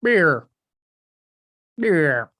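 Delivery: falling pitch like tape slowing down; tape stop. Shown as a demonstration. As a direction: let the word sag and slow like a stopping tape. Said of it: "that's my impression of a tape stop".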